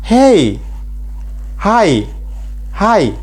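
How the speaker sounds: high, lively "hello", "hey", "hi"; casual replies. Shown as a demonstration. Teacher demonstrating casual replies, bright and high. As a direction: answer a greeting brightly. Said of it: "ukansubiza hey".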